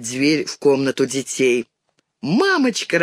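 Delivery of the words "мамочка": joyful. A narrator's reading. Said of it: "радуется мышка".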